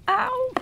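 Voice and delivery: sharp burnt-finger ow; pained yelp. Real, not acted. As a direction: yelp from a quick burn. Touching the hot pie.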